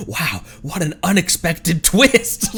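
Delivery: slow, hammed-up fake surprise in a put-on French accent; mocking NPC voice. Streamer mocks Fontaine NPCs, slow hammed-up NPC voice. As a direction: drag it out like a smug game NPC.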